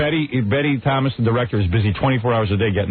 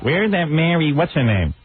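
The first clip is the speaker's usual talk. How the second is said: lightly imitated wife, pitched up; mock interrogating wife; 6 semitones higher, slower than usual. Husband recounts last night's third degree, mock interrogation. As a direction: mimic a suspicious wife's questioning. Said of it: "I got the third degree last night".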